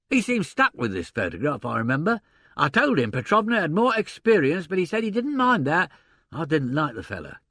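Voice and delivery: lively agent voice working it out; gruff theatre agent. Acted. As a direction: voice a blustering old stage agent. Sullivan recounts the visitor.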